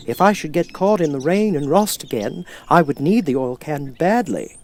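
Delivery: a rusted man grateful to be heard; Tin Man. Acted.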